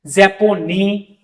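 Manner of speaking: "जैपोनी" drawn out very slowly; slow French japonais. Shown as a demonstration. Teacher slowly modelling masculine japonais. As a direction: stretch "जैपोनी" syllable by syllable. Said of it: "और feminine बना दो".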